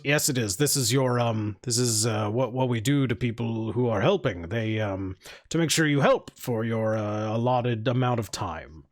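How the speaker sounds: low voice, explaining the rule; firm kitchen worker. Acted. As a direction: lightly play a matter-of-fact overseer. Kitchen worker insists he must help.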